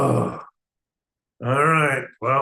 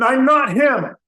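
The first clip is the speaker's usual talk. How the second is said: irritated blurt; 2 semitones higher, 4 dB louder than usual. Acted. Another angry interruption.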